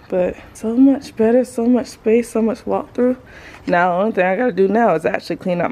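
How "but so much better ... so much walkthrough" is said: winded, breathing between phrases. Real, not acted. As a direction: still puffing after the effort. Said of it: "Sorry if I'm so winded".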